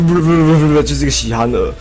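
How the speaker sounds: rapid repeated gibberish syllable, mockingly; mocking babble. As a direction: imitate the opponent's nonsense stammer. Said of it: "这样听起来就不".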